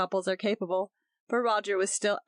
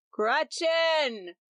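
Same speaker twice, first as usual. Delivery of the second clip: calling out; 7 semitones higher than usual. A narrator's reading. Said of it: "called for his wife".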